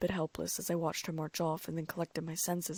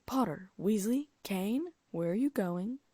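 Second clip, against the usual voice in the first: stern teacher voice; 3 semitones higher, 4 dB louder, slower than usual. Acted. Stern teacher catches students.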